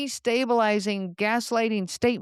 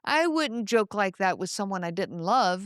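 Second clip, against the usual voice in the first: warm mock reassurance; 3 semitones lower than usual. Partner warmly excusing a disrespectful joke, gently soothing. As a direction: play it as a cozy, loving excuse. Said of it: "they warmly say".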